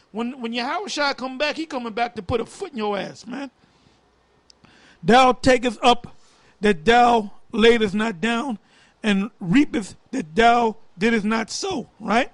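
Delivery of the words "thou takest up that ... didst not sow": slow, deliberate verse reading with pauses; scripture reading. Acted. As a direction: read it out as scripture, phrase by phrase. Reads scripture verse aloud.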